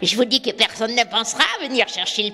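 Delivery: a hint of a scheming witch. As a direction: boast like a sly forest witch. Witch boasting behind tree.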